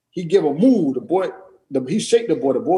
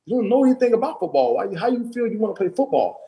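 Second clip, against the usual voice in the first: dismissive dad; 7 semitones higher than usual. Retold or imitated. Dad retells dismissing son.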